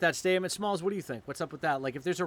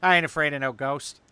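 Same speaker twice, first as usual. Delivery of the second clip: cartoon voice; 2 semitones lower, 6 dB louder than usual. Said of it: "say what I want you to say".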